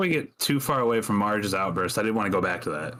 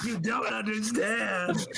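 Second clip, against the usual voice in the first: put-on indignant old woman; 12 semitones higher, slower than usual. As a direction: protest being called old, pitched high. Marge retorts indignantly.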